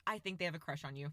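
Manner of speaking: low, quick imitation of an earnest mom; serious mom. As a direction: deliver it dead serious, as mom did. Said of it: "she was just so serious".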